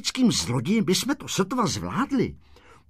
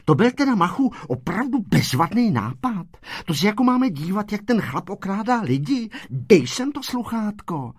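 higher, indignant telling-off; indignant schoolgirl, pitched up; scolding girl; 6 semitones higher than usual. A narrator's reading. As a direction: scold a friend in a raised pitch. Šebestová scolds Mach for his idea.

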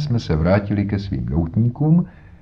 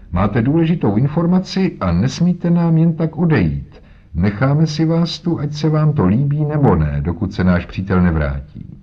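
higher, firm police inspector blocking the door; 7 semitones higher than usual. Acted. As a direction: hold him there, friendly but firm. Jones blocks the old man.

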